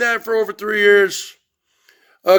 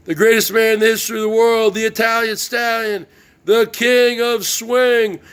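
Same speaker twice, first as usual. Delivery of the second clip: announcer sign-off. Acted. Vlogger signing off his show, shouted ring-announcer promo. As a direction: bellow the big self-intro like a ring announcer.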